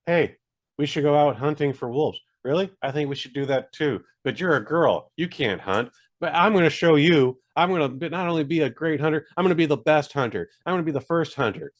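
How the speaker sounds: lightly acted English-dub characters; a hint of earnest, simplistic dialogue; basic film dialogue. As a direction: imitate plain-spoken movie hunters trading lines. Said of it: "they all talk like this".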